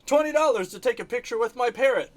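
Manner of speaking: high, loud carnival barker call; mock street performer shouting for customers; street hawker yelling. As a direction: hawk it at passing tourists. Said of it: "they're always yelling at you".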